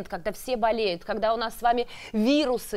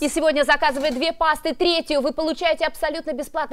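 infomercial; 2 semitones higher than usual. Acted. Call-to-order sales pitch.

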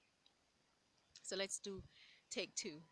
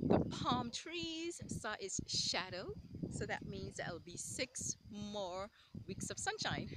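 joke punchline; 6 dB louder than usual. Acted. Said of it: "let me see if I can get this right".

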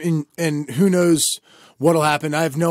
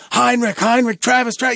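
high-pitched calling without much volume; retold mock yell; 7 semitones higher than usual. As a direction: imitate a teacher calling out a pupil's name. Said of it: "and she's yelling".

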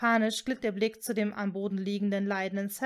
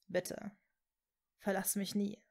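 pleading; 2 semitones lower, 6 dB quieter than usual. A narrator's reading. Severus begs Hermine to stay, pleading softly. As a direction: beg quietly, in a lowered voice. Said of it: "bat er".

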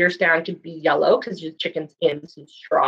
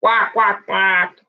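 duck quacks; much slower than usual. Retold or imitated. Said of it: "What do you think duck says back?".

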